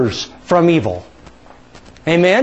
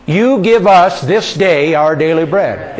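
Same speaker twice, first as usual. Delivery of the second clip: slow, deliberate, leading the congregation; slow unison recital; slower than usual. Shown as a demonstration. Pastor leads the congregation, slow and deliberate. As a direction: spell it out word by word together. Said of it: "And say it with me".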